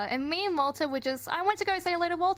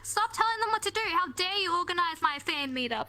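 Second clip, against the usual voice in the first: higher, indignant mock scold; 5 semitones higher than usual. B scolding at her meetup, higher mock anger. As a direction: imitate her telling you off. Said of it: "And she's like".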